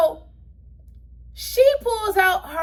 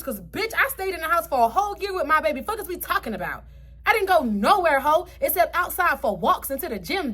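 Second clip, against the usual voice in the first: real anger; 2 semitones higher than usual. Real, not acted. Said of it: "I just got mad".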